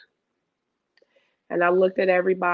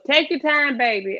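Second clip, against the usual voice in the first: encouraging; 6 semitones higher than usual. Retold or imitated. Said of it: "a lone voice".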